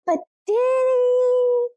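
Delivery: high, slow, sceptical Hammond voice; Hammond mocked. Co-host imitating Hammond doubting the murder, slow and high. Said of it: "And Hammond's like".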